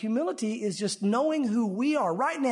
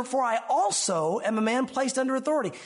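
"also" stressed as the verse is quoted; 3 semitones higher than usual. Shown as a demonstration. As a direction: point up the word "also". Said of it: "Notice the words here".

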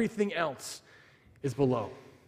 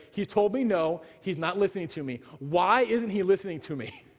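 getting mad; 3 semitones higher than usual. Retold or imitated. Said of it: "So now I'm getting mad".

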